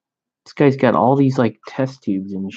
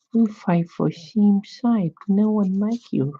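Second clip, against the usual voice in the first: mock Asian accent; 8 semitones higher than usual. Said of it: "Her face looks kinda Asian".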